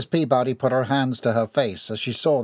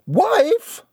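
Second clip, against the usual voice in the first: sharp, much higher, louder outburst; spluttered shock; 4 dB louder than usual. A narrator's reading. Ellie learning her husband speaks of a wife, shocked splutter. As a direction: blurt it out in disbelief. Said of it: "Ellie spluttered".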